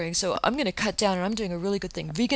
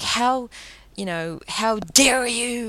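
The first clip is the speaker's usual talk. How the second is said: hammed-up indignant how dare you, slow and louder; mock outrage; 4 semitones higher, 4 dB louder, much slower than usual. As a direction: play the shrill outraged vegan she's accused of being. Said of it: "and being like".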